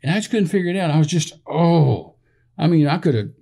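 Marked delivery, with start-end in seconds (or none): 1.5-2.1 drawn-out "oh" of pent-up anger; slow, higher exasperated oh; exasperated groan. Retold or imitated. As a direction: groan as if reliving the frustration. Groaning at remembered unexplainable anger.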